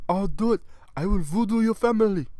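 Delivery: loud, high put-on villain voice; threatening trafficker. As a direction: bellow voodoo threats in character.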